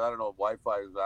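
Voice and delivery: talking while chewing gum; words round a wad of gum. Real, not acted. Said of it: "Ignore the gum. I'm chewing".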